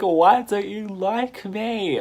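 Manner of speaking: high, loud mock wail; insistent demand. Stranger demands to be liked, high and insistent. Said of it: "this bitch gets serious".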